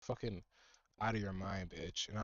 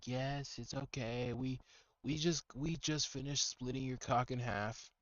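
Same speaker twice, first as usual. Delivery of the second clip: mock soothing nurse. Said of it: "she's gotta be like".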